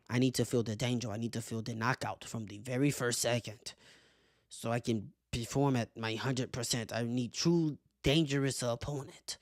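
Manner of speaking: lightly imitated fighter's accent; deliberate, measured impression of a fighter; Yuri Prochazka's voice. Quoting the fighter's need for danger, lightly mimicked voice. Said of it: "I gotta say it in the voice".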